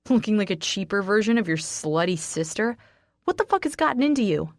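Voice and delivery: sneering, rising into a fast angry outburst; mocking then furious; contemptuous anger. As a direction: tear into her with scorn. Raynor insulting her angrily.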